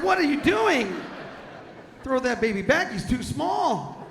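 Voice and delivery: high, loud laughing mock scold. Joking to a friend about a fish, mock scolding shout. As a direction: scold them in a cartoonish squeal. Mocking someone at the river.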